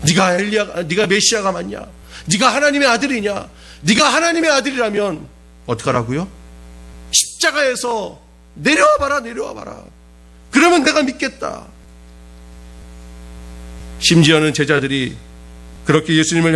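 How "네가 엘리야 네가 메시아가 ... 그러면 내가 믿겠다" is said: the crowd taunting Jesus to come down, jeering; mocking crowd. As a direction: sneer at him like the mob. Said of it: "조롱합니다".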